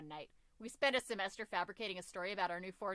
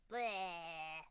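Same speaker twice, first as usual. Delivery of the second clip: mock disgust noise; 3 semitones lower than usual. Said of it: "Just that sound effect".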